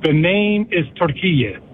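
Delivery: slow, careful Turkiye with a light, unstressed ending; correct Turkiye pronunciation. Shown as a demonstration. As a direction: spell out Turkiye by ear, slowly. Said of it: "emphasizing the iye at the end".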